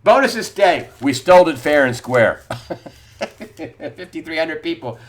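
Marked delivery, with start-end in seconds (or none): 0.0-2.4 strut it like a smug banker; pompous mock boast. Host parroting bank bosses, loud pompous mock swagger. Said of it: "they feel pretty pompous".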